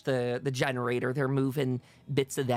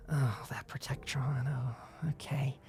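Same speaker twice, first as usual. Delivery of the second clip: soft, whispery grumble; hushed aside under the breath; muttered aside; 6 dB quieter, slower than usual. Acted. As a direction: mutter it half to yourself. Character grumbles to herself about robot.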